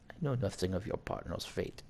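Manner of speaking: put-on French-accented villain. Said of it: "you want the French accent".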